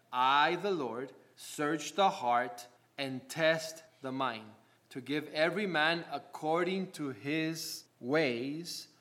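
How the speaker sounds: slow, measured reading of the verse; solemn Bible reading from the pulpit; scripture reading. Acted. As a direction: read each phrase slowly and deliberately. Reads scripture aloud slowly.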